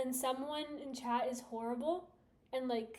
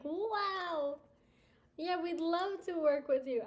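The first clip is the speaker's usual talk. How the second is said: eager company rep; 5 semitones higher, 3 dB louder, slower than usual. Pretend.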